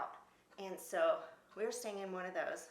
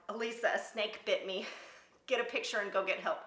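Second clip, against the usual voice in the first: raised urgent call to her friend; 3 semitones higher, 6 dB louder than usual. Retold or imitated. Calling to Elisa for help, raised and urgent. Calling out after snake bite.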